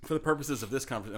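speaking through a burp; words with a burp caught in them. Real, not acted. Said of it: "I'm sorry I'm burping".

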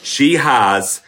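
measured, emphatic coaching with deliberate pauses; lightly voiced teacher making each point land; slow down on key points, as if coaching trainees; teacher advising hairdressers. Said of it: "what I always say to hairdressers when I'm teaching".

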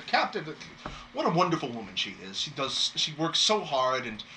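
admiring, chatty town host; lightly voiced gossiping host; gushing innkeeper. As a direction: praise the captain to visitors.

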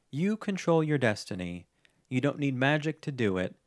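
lightly voiced Merida, slow; a hint of Merida's resolve, slow; Merida quote. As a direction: read it as a calm pep talk, slowly. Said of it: "this is from Merida herself".

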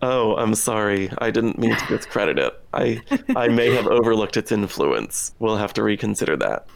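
mock-contrite, playing along with the joke; sarcastic apology. Co-host pretends to apologize for slighting a bad show, sarcastic. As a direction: apologize with tongue in cheek. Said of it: "That was sarcasm".

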